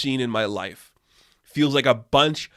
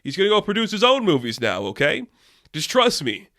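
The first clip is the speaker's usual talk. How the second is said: mock Al Ruddy; 3 semitones higher than usual. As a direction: wave the question off like a self-important producer. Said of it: "then it's like".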